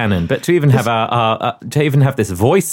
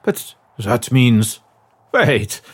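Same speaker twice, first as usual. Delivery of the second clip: put-on halting, dramatic German accent; 3 semitones lower, slower than usual. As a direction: piece it together in a German accent. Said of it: "my German accent's been very good".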